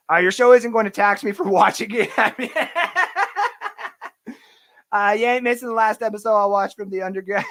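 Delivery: amused by a viewer's joke, laughing through it; laughing while reading. Real, not acted. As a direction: read it through real laughter. Reading funny chat, laughing.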